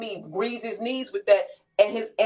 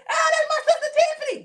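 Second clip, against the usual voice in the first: high delighted laughing call-out; greeting her sister Tiffany in the chat, laughing and high. Real, not acted. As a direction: laugh and shout out your sister.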